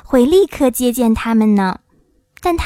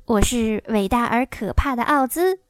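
understated timid little man; a touch of nervous wavering; mildly trembling. Acted. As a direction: announce yourself meekly, without the boom. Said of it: "小个子男人声音发抖地说".

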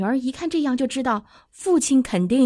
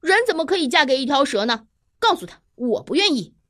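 eldest daughter's lightly raised, quick protest; mild shout; 5 semitones higher than usual. Acted. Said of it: "大女儿听完就嚷道".

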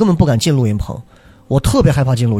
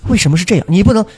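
Baoji accent. Shown as a demonstration. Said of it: "口音有时候就会把恐怖的画面直接撕掉".

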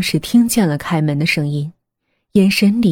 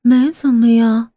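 evasive nanny; 5 semitones higher, 4 dB louder than usual. A narrator's reading.

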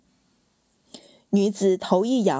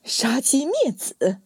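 slow, raised outraged cry; furious roar; 5 semitones higher, slower than usual. Acted. Emperor roaring at his brother, slow and furious. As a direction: bellow it in fury. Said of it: "暴声怒喝".

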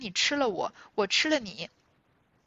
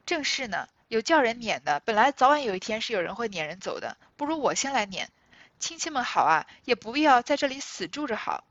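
cold sneer; 4 dB louder than usual. Retold or imitated. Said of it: "探春就冷笑道".

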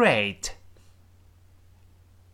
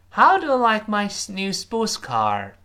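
How said high and loud, falling to the end; falling question; 7 semitones higher, 4 dB louder than usual. Shown as a demonstration. Teacher models the question ending in a fall. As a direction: stress How, then let it fall. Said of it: "特殊疑问句最后降调哦".

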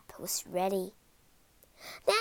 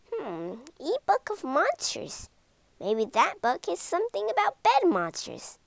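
put-on boy thinking aloud; 5 semitones higher than usual. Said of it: "Ben thought".

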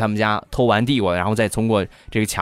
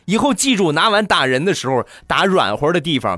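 mom yelling; 8 semitones higher than usual. Retold or imitated. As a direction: yell at the kid like a mom counting every broken bowl. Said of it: "我妈在里边又大声地喊道".

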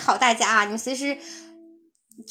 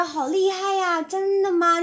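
amazed; 5 semitones higher, slower than usual. Shown as a demonstration. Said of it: "他是这种语气啊".

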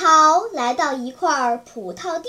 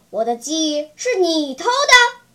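angry; 7 dB louder than usual. Acted. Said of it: "他生气地说".

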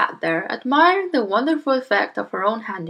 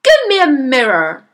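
loud, high-pitched demand; yelling father; 5 semitones higher, 7 dB louder than usual. Acted. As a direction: yell the order urgently. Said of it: "the father yelled".

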